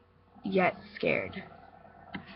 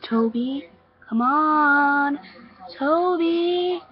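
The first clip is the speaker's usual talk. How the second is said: raised, drawn-out summoning call; 8 semitones higher, 4 dB louder, much slower than usual. Acted. Girl summons a boy to join her, calling out. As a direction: beckon them from afar, pitch climbing.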